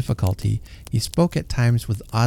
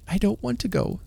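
put-on sulky little girl; 10 semitones higher, 5 dB quieter than usual. A narrator's reading. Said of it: "said the girl".

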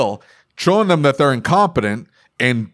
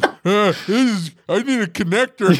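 higher-pitched helpless technician imitation; mock technician; 7 semitones higher than usual. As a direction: mimic a hapless worker asking for help. Mimics the clueless technician.

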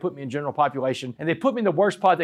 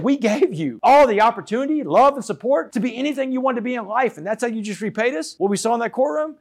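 raised, higher-pitched motherly reproach; retold indignant scolding; 8 semitones higher, 3 dB louder than usual. Mother reproaching her convicted son, indignant scolding. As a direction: let hurt indignation push the voice up.

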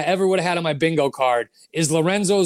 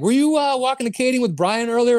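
mock tough guy; 8 semitones higher than usual. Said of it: "He's like".

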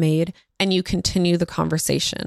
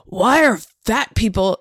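put-on toddler's remark. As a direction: mimic a small child with puffed-out body. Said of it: "she said it like this".

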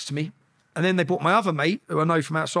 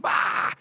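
voiceless mock scream; a held-back "Ah!" scream; retold scream; 3 dB quieter than usual. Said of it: "I remember just screaming".

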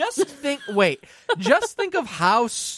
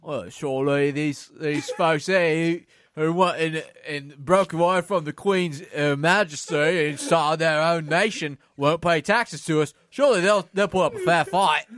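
put-on British accent. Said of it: "it just went back into Australian again".

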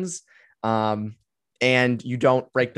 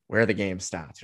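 low, softer tagline in a mock Boston accent; 5 semitones lower, 4 dB quieter than usual. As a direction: say "starts" as "stahts", Boston-style. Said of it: "to do the Boston accent".

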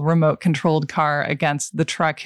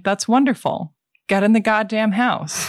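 lightly acted movie line, a little higher; a hint of character, pitched up; Ruben; 4 semitones higher than usual. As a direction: quote a gruff-worded host ordering guests in, voice lifted. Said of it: "another great Ruben line".

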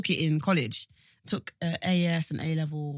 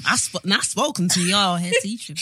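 put-on New Zealand accent; 5 dB louder than usual. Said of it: "why were they all from New Zealand".

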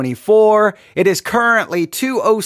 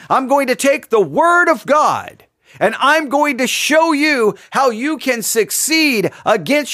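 lightly voiced preacher, higher and bright with promise; pulpit preacher; 4 semitones higher than usual. Pastor greeting the congregation from the pulpit, preachy. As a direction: announce it like a hopeful pastor. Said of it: "the pastor was to stand behind the pulpit and say".

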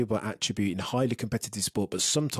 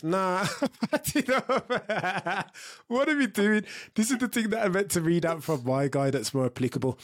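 laughing exasperated; 8 semitones higher than usual. Real, not acted.

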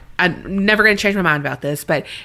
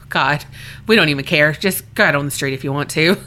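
low, weary don't-care parent; lax parents; 7 semitones lower, faster than usual. Retold or imitated. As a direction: lower the voice, shrug it off like lax parents. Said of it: "lax and just like".

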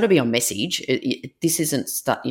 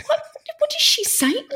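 laughing disbelief. Retold or imitated. Shocked mum retelling, laughing.

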